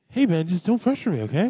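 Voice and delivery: lightly voiced celebrity impression; Mark Wahlberg. Actor character tells his co-host to back off, Mark Wahlberg impression. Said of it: "Mark Wahlberg".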